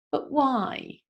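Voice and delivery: put-on mildly whiny toddler asking why; whiny child. Shown as a demonstration. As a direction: whine it like a small kid. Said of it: "your most whiny voice".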